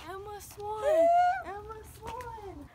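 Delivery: high, slow calling out from far away; dared yell. Real, not acted. Girl in pajamas yells the name down the road, calling. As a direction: shout the name to the whole street. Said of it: "I dare you to yell".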